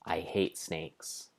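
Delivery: slow, quiet, heavy dread; character line. Acted. Explorer dreads the snake-filled mine, slow and quiet. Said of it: "she said".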